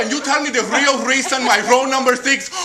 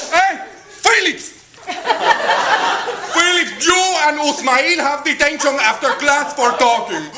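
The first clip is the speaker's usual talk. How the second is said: a raised, higher teacher's scolding; mock angry teacher; 4 semitones higher, 3 dB louder than usual. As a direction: scold the class like the furious teacher. Angry teacher voiced in story.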